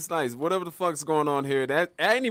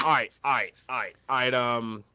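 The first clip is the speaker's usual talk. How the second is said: a touch lower, musing to itself; voice of nature; 3 semitones lower than usual. Retold or imitated. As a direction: talk like nature deciding, lightly voiced. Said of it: "nature went like".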